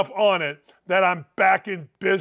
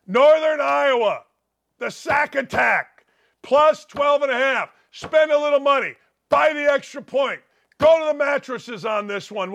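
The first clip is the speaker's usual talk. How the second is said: hyped pitch; 4 semitones higher than usual. Real, not acted.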